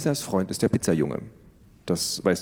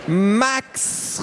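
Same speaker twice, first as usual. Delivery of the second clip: little sister calling her brother in; 12 semitones higher than usual. Acted. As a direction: shout for her brother outside. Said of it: "rief Tiffany".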